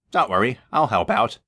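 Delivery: kind reassurance; softened. Acted. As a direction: reassure him kindly. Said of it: "Thomas softened".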